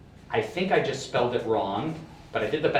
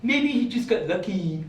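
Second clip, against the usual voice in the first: higher-pitched mocking voice for doubters; imagined home skeptics; 5 semitones higher than usual. Magician imitates viewers at home doubting his trick, mocking voice. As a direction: put on a raised doubter's voice. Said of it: "that's how they sound in my head".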